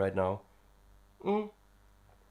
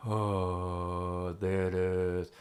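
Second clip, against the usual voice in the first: low yawning sigh; 6 semitones lower, 4 dB quieter, much slower than usual. Shown as a demonstration. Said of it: "If you sigh or hum or, um, yawn".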